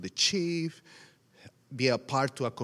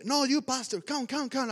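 pastor beckoning; 9 semitones higher than usual. Retold or imitated. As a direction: wave someone up with a high, repeated call. Pastor beckons him to the front.

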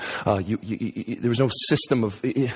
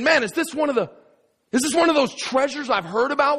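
higher, breathless wonder at the find; excited wonder; 11 semitones higher than usual. Retold or imitated. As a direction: gasp it out like you've struck gold. Finder wonders at the treasure.

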